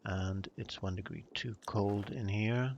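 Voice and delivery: a dry, mock-formal British accent; dry British accent, lightly put on. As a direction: play the stiff British gentleman, deadpan. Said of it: "my very dry British accent".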